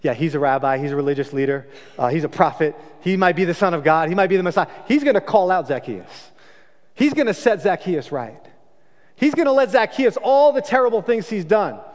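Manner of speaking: the crowd relishing his downfall; eager crowd. Retold or imitated. Crowd imagining Jesus shaming Zacchaeus, gleeful. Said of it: "Everyone's excited".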